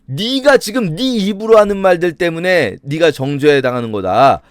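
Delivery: hammed-up scolding, leaning hard on the accusations; mock berating. Eliphaz turns the blame back on Job, mock berating. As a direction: berate him like an offended elder friend. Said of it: "이제 막 욕하는 거예요".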